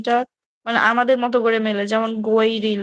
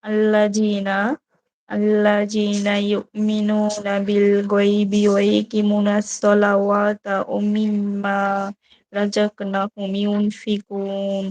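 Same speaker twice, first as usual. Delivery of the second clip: slow, measured Quranic recitation; slower than usual. Acted. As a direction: draw each Arabic syllable out slowly. Reads Quran verses aloud. (ধীর কোরআন তিলাওয়াত)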